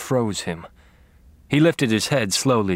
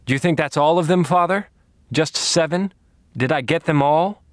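high, louder mocking questions; taunting; 7 semitones higher, 3 dB louder than usual. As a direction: toy with him, mock innocent. Taunting the captive priest.

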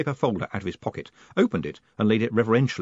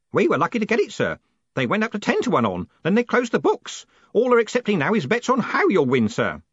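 put-on high, loud old man; old Grote, pleased; 11 semitones higher, 4 dB louder than usual. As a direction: report the odds with relish.

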